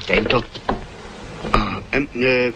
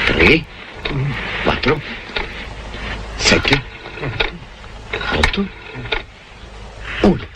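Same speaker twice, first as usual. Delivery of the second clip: put-on Swedish accent through a mouthful; disguised Swedish accent, muffled; 8 semitones lower, slower than usual.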